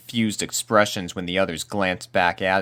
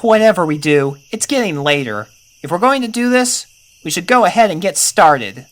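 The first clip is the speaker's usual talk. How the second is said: put-on raised, urgent young voice, a touch higher; eager colt Rumble; 11 semitones higher, 8 dB louder than usual. Rumble urging the colts into the forest, lightly raised colt voice. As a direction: push the friends to get moving.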